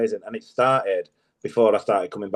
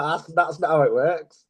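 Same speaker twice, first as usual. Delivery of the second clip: reaction voice; 5 semitones higher, slower than usual. Retold or imitated. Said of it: "That's like".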